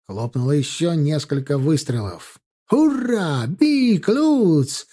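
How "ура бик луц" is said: high, all-out charging cry; desperate battle cry. A narrator's reading. Lancers breaking through the gap, desperate cry. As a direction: hurl out each word as a war cry. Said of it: "С отчаянным криком".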